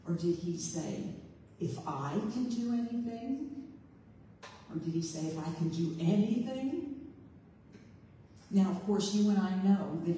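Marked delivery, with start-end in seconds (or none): 1.6-3.5 "can" lifted and stressed with a rising end. Shown as a demonstration. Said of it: "where is the emphasis". 5.3-7.1 "anything" stressed with a rising end. Shown as a demonstration. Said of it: "where is the emphasis".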